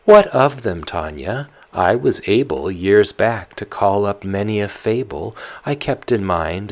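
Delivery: put-on loud, fussing old nurse voice; the old nyanya, voiced up loud and fretful. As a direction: nurse grumbling about her poor memory. The nurse answers Tatiana.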